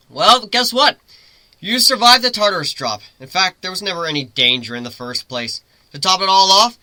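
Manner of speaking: high, loud, playful griffin voice; griffin teasing. Acted. Griffin teasing Lyra mid-fall, high playful voice. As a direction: tease her lightly as you both fall.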